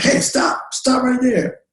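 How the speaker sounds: high-pitched imitation of a shouted order; retold police yell. Officer ordering a man to halt, retold yell. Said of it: "yells out to me".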